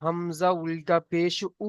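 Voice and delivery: slow spelling-out, with the final "উ" held long; drawn-out vowel. Shown as a demonstration. Teacher shows students the one-alif stretch, final "উ" drawn out. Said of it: "এক আলিফ পরিমাণ টান দিয়ে পড়তে হবে".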